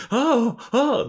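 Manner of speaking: very high mock frightened squeal. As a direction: squeal like there's a mouse loose. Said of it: "they're like".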